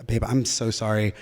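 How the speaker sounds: put-on soft, low apology to a girlfriend; subdued apology. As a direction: say sorry quietly and low. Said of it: "I said".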